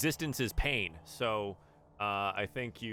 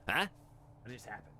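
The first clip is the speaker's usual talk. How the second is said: confused madcaps; 6 dB quieter, faster than usual. Acted. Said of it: "they look around at each other".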